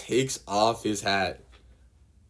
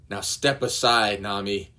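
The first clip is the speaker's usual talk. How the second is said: mild yell; 4 dB louder than usual. Acted. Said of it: "yells at Nami".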